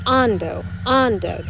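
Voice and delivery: "ando" with the stress on its first syllable, the A. Shown as a demonstration. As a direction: lean on the opening A of "ando". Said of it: "The emphasis goes on that A".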